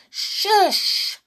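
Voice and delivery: high, loud shush; urgent shush from the dark; sharp hush. Acted. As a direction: hush him at once. Voice from the gloom.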